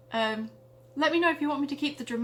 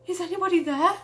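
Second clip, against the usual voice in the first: higher, louder, a touch of shaky fear; voice shaking; 5 semitones higher, 5 dB louder than usual. Acted. Matilda calling into the dark cave, slightly shaky and scared. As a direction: call out nervously, a little scared. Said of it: "her voice shaking slightly".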